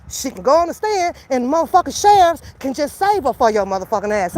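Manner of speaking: ordinary delivery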